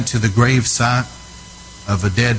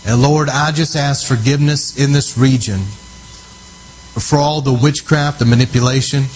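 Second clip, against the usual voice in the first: fervent prayer; 2 semitones higher than usual. Real, not acted. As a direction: pray it out with urgency and authority. Leads loud prayer over region.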